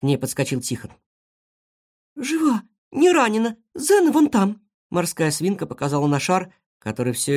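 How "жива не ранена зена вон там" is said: high squeaky little animal voice; guinea pig voice. Acted. Guinea pig reports to Tikhon in a high squeaky voice. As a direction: pitch it up like a small guinea pig.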